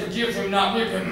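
high, loud, insistent order; harsh command. Acted. Daddy tells how he heard Jesus, loud and harsh. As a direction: declare the punishment forcefully. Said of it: "That's how he said that".

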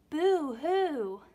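hammed-up high, loud boo-hoo wail; mock crying. Frightened children wailing at the ghost, a hammed-up high sob. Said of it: "The girls and Pepito cried".

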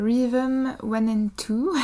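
slow English title in a French accent. Real, not acted. Reader giving an American poet's English title, apologetic French accent. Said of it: "désolée pour l'accent".

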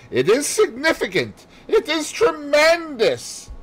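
high, emphatic and slowing; grand pronouncement. Acted. Poirot stresses the missing link to Hastings, grandly emphatic. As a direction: proclaim it as a revelation.

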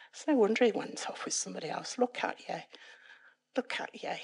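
quietly putting yourself down; self-critical inner voice. Retold or imitated. Retold self-critical thought.

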